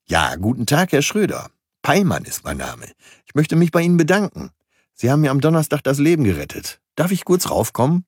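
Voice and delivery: a grateful stranger greets Herr Schröder over the intercom; friendly stranger. Acted. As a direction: sound grateful and eager on the intercom. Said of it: "Eine freundliche, warme Stimme".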